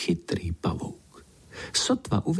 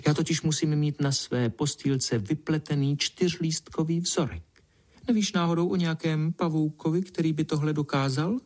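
put-on higher, haughty girl voice; boastful little Pinkalinka; 7 semitones higher than usual. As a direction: play the grand princess.

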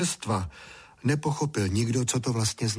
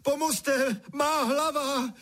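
very high, stretched howl for help; drenched boy screaming for help; desperate cry; 14 semitones higher, slower than usual. A narrator's reading. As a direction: wail to parents after the soaking. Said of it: "křičel, co mu hrdlo stačilo".

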